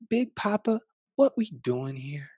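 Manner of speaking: put-on a small child calling to grandpa. Grandchild asks Big Papa where they've landed, high childlike voice.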